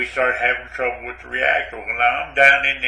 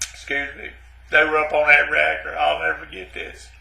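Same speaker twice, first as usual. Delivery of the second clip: mock choked up; 3 dB quieter than usual. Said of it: "I might get a little choked up".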